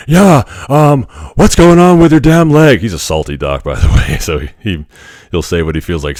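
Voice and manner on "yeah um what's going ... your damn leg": put-on much higher, louder eccentric old scientist; Doc Brown. Radiologist asking about his swollen leg, as a loud higher eccentric scientist. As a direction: play the wild-haired movie inventor barking a question. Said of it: "I'll try to do my best Doc Brown impression".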